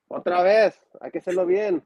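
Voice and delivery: Super Mojado impression. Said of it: "impersonation of, uh, uh, Super Mojado".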